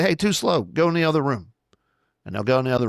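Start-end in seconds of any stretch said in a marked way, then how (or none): 0.0-1.5 higher-pitched playful telling-off; mock correction. Father drilling kids to line up faster, mock correction. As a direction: call them out in a lifted, lightly scolding voice.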